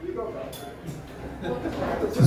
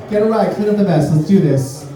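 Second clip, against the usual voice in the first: laughing; 5 semitones higher than usual. Acted. Continuing tampon cheer with laughter.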